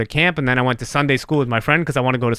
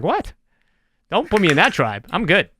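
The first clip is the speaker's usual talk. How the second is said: mock indignant; 4 semitones higher than usual. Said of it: "and I'm like".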